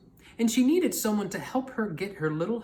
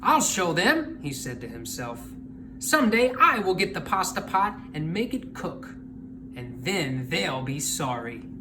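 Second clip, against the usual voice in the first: angry muttering. Acted. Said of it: "Big Anthony was angry".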